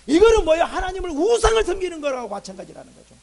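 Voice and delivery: hard-hit opening, driven home to the congregation; forceful preaching. Real, not acted. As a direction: burst out loud, then ease off. (강하게 터뜨리는 설교)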